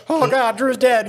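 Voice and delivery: high, slow imitated panic; panicked cry. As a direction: wail it like the driver thinks he's dead. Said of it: "driver's like".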